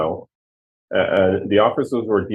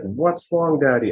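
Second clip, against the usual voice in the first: a light hint of a child's higher voice; worried little girl; 5 semitones higher, slower than usual. Young daughters ask their crying father what's wrong, lightly voiced.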